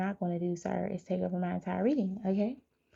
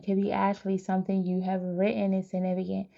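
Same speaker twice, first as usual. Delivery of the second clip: normal talking voice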